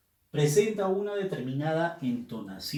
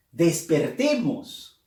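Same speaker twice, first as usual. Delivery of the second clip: exhortación enfática; 6 dB louder, slower than usual. Shown as a demonstration. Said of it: "Del mismo modo, "despertemos".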